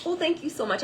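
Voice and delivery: high grateful thank you; reply to the stranger's praise; flattered thanks. Retold or imitated. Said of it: "I was like".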